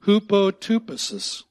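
"Hupotupesis" called out loudly for the room to echo; leading a repeat. Shown as a demonstration. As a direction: lead the crowd in saying "Hupotupesis". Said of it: "One more time".

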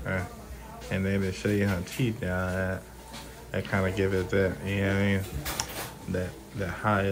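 slurred numb-mouth speech. Real, not acted. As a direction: talk like your mouth is numb. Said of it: "my mouth is, like, numb and shit".

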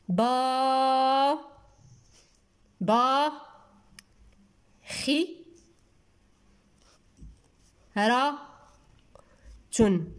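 با held long, then خي، را، تن each alone; slow, isolated syllables, first با drawn out; sounding out while writing. Shown as a demonstration. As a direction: dictate با، خي، را، تن with long silences between syllables. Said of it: "إذن نكتبوه باش هكذا".

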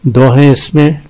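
usual speaking voice

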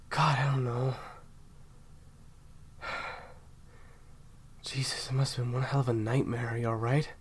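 shaken whisper. Acted. Partner calming down beside the listener, whispered. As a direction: ease down from the scare, hushed.

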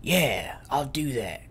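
unvoiced whispered aside. Real, not acted. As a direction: breathe it out under your breath.

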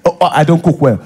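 sarcastic, falsely stunned parroting; mocking echo. Partner repeating the complaint back, mocking. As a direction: echo it to make them feel stupid. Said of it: "start repeating after you".

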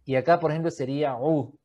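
usual speaking voice

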